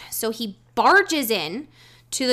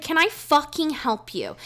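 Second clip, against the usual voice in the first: slow, higher, irritated "Can I fucking help you?"; annoyed, slow; 4 semitones higher than usual. Retold or imitated. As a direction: drag it out, sarcastic. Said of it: "And I was like".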